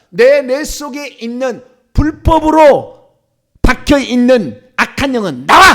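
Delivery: slow, loud exorcism order; commanding. Shown as a demonstration. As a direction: draw it out, then burst on the last word. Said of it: "한번 해볼까요?".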